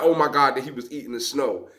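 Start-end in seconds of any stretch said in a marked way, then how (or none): 0.0-0.6 amused oh my god. Shown as a demonstration. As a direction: laugh it out, tickled by the kid. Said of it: "Not that, not".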